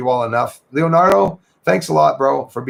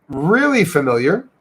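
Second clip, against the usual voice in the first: usual speaking voice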